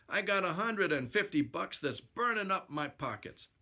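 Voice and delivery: lightly voiced boxer bragging; boxer hero. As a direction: push the bet as the boxer hero. Narrator voices boxer hero's brag.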